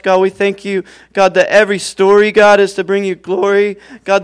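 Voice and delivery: earnest spoken prayer to God. Acted. Pastor praying for everyone in the room, earnest prayer. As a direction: pray over the whole room, unhurried.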